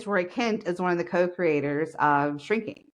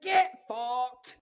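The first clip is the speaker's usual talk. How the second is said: mock Roy Kent; 5 semitones higher than usual. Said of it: "And I'm like".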